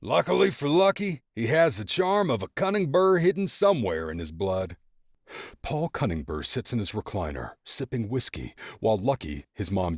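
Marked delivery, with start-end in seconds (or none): 0.0-4.8 high, loud teasing dad voice; joking father. A narrator's reading. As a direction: tease like a proud father. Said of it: "would often joke".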